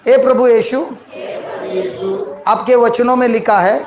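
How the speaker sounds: measured prayer in short phrases; led prayer. Real, not acted. Preacher leads congregation to repeat, measured prayer. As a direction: pray it phrase by phrase, leaving room for echo.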